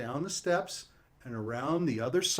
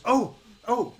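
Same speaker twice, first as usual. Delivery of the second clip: witch voice; 8 semitones higher, 4 dB louder than usual. Acted. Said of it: "she goes".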